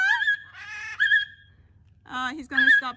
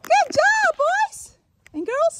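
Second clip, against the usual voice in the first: squeaky praise; 13 semitones higher, 7 dB louder, much slower than usual. Real, not acted. Praising returning birds.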